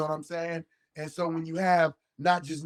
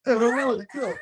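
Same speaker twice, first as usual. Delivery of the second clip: mad refusal; 5 semitones higher, 4 dB louder than usual. Retold or imitated. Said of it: "I'm mad".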